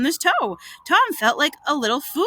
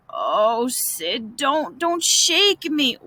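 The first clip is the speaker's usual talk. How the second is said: slow pained moan; much slower than usual. Acted. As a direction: moan as if too sore to be moved. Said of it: "Tom moaned out".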